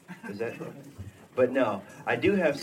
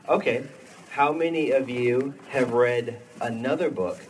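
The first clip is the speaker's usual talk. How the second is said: big hall echo; 4 dB louder than usual. Real, not acted. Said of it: "can you hear the reverb?".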